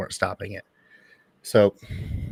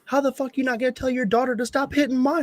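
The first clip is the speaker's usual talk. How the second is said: high, loud disbelief breaking into a laugh; incredulous retort; 6 dB louder than usual. Retold or imitated. Dad retelling his comeback to the mom, high incredulous laughing outburst. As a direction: fire it back in outraged disbelief, laughing. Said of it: "And I'm like".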